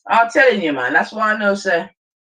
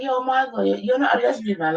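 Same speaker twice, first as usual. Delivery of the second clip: high mocking impression; 7 semitones higher, 3 dB quieter than usual. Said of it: "Atticus is gonna be like".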